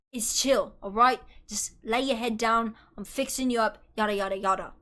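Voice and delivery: lightly put-on British accent; joking British accent. Streamer voicing Hubert soothing Terry, joking British accent. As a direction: play it casually British, not seriously. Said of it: "no, he's not British".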